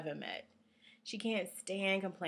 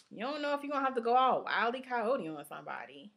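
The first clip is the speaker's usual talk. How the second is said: lightly mimicked tough-friend advice; a hint of sassy readiness to fight; streetwise friend's warning; 5 semitones higher, faster than usual.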